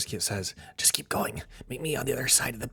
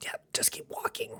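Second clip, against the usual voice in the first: soft, hushed whisper under the breath; 5 dB quieter than usual. Voicing a character warning a player not to look back: whispering. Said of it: "He's kind of trying to, like, whisper it".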